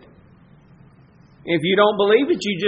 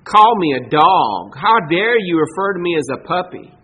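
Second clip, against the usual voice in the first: mock indignation; 5 dB louder than usual. What she doesn't say to Jesus, indignant. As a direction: puff up with wounded pride. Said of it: "She doesn't say".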